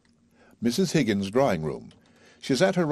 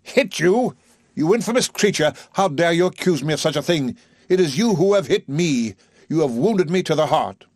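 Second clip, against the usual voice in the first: high, loud indignant professor; outraged Higgins; 9 semitones higher, 5 dB louder than usual. A narrator's reading. Higgins berating Eliza after being accused, indignant and loud. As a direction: hurl his wounded outrage at her.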